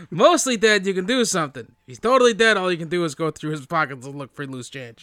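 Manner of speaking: badly faked comic character voice; lightly put-on movie healer patter; terrible Billy Crystal. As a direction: do a hammy, unconvincing celebrity impression. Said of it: "doing a terrible Billy Crystal impression".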